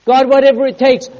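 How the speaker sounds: high, urgent prayer plea; crying out to God. Acted. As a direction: cry it out with full conviction. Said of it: "when I cry out to God".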